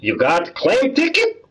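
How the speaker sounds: high, irritated shopkeeper voice; grumpy dry cleaner. Acted. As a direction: snap at the customer.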